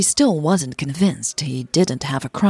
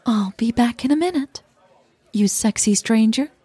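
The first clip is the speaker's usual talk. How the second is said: playful wink; 6 semitones higher than usual. Acted. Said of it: "winked at her playfully".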